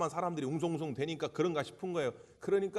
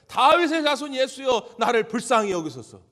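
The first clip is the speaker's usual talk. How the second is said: full-voiced plea for mercy; even louder cry; 7 semitones higher, 12 dB louder than usual. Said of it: "더 크게 소리 지르는 거예요".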